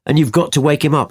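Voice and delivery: high-pitched mock suggestion; taunting. Retelling Elijah mocking a sleeping god, taunting. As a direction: tease them, starting high and hurrying the end. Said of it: "Hear the taunts".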